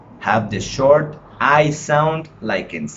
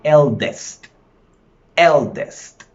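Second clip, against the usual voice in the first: "Eldest" with loud EL each time; stress on first syllable; 3 semitones higher, 5 dB louder, slower than usual. Shown as a demonstration. Teacher repeating the word to show stress, loud EL in "Eldest". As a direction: punch EL in "Eldest". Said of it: "Which one is the stressed syllable?".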